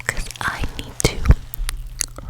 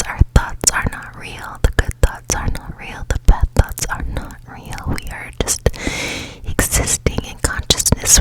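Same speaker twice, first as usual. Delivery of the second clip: guided meditation. Acted. Host guiding listeners to clear their thoughts, whispered guided meditation. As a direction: whisper them gently into a clear mind.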